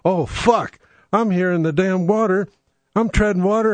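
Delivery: panicking man overboard; panicked. Pretend. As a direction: cry out from the water. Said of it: "It's like".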